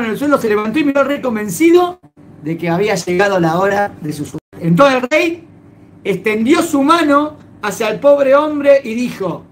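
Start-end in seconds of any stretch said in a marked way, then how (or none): none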